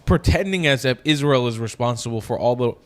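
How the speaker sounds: slight lisp from braces; talking around new braces, a little spitty. Real, not acted. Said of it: "I still have my braces on".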